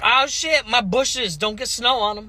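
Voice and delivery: high, loud mock fretting; loud put-on worry voice; mocking white people. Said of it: "these people are like".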